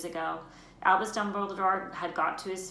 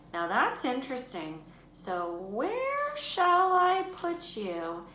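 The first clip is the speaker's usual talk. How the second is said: small hat voice. Acted. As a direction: weigh the boy up slowly, curious. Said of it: "said a small voice in his ear".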